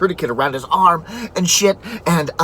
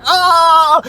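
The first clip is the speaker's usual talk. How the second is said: sudden high yelp of pain, much louder; pained shout; 11 semitones higher, 6 dB louder than usual. Retold or imitated. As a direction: yelp as the fangs sink in. Snake bites his hand.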